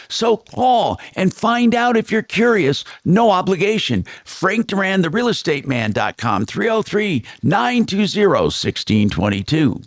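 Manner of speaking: upbeat announcer pitch for a realtor; radio ad read. Acted. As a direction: sell it like a radio spot. Host reads a radio ad.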